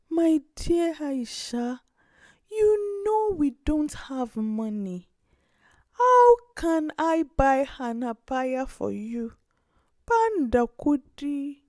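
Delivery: a poor grandmother letting her down kindly; gentle grandmother. Acted. Grandmother voice in story.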